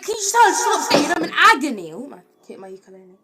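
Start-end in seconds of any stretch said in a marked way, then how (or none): 0.0-1.9 pleading in pain. Retold or imitated. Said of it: "Then I'm like".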